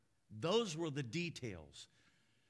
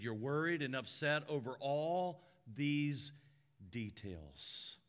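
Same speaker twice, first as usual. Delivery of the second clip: gentle; 2 semitones lower, slower than usual. Acted. Jesus gently addressing Martha.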